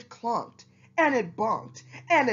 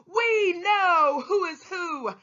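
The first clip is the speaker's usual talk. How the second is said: proud shout; 5 semitones higher than usual. Acted. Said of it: "they let out a shout".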